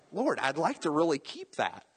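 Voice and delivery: a hint of a put-on pleading voice; mock plea for keeping his hair; pleading to God. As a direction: ask the Lord lightly begging. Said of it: "I'm like".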